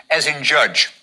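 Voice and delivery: judge with a clear D J sound at the start. Shown as a demonstration. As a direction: say judge with a hard DJ onset. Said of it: "It's really a D J sound".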